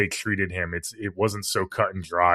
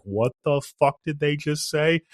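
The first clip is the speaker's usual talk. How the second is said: retold fearful whisper; 6 semitones higher than usual. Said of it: "she's like".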